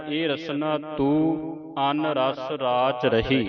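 slow recitation, ਤੂੰ as oral "tu"; drawn-out verse with pure uu in ਤੂੰ; read without nasalisation. Shown as a demonstration. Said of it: "ਟਿੱਪੀ ਤੋਂ ਰਹਿਤ ਪੜ੍ਹਨਾ ਹੈ".

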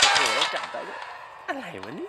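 shrill scared cry as she grabs him; frightened yelp. Real, not acted. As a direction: yelp in real fright, pitch shooting up. Caught by Granny.

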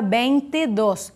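"vinte e dos" with an e sound as the linking vowel; student's error, bente-dos with e in the middle; wrong E for I. Shown as a demonstration. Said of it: "Você não pode fazer isso".

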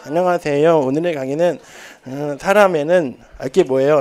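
slow stiff robotic lecturing; a hint of a robot teacher; robot lecture. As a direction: lecture like a flat robot, lightly done. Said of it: "로봇 강의".

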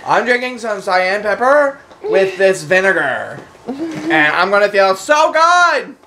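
lightly voiced Beverly Hills rich girl; mock a pampered rich girl, slow on pepper; rich girl impression. Mocking the diet's creator as a rich girl. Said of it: "how we say it in Beverly Hills".

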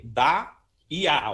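"da" e "a" pronounced as joined syllables; sílabas juntas. Shown as a demonstration. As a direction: demonstrate "da" flowing into "a". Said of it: "as duas pronúncias juntas". ("da" e "a" pronunciados juntos)

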